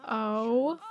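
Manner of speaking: slow, drawn-out amazed gasp of words; stunned awe. Real, not acted. Gamer seeing her Sims' first kiss, slow stunned awe. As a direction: stretch it out in disbelief.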